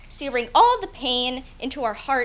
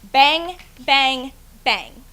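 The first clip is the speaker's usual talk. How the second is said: mimicked gunshots; 6 dB louder, much slower than usual. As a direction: punch out each bang like a shot. Gunshots mimicked in spoken poem.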